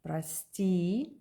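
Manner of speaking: прости with stress on the second syllable and the O reduced to ah. Shown as a demonstration. Teacher modelling прости for learners, stress on E. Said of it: "the stress accent is on E".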